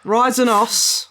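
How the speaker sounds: high, laughing attempt to repeat an accent; laughing mimicry. Real, not acted. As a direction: struggle to get it out through laughter. Laughing while repeating the accented words.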